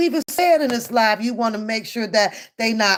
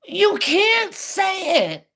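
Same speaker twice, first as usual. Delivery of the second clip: incredulous high voice; 8 semitones higher, slower than usual. Real, not acted. Ranting at a clip of Booker.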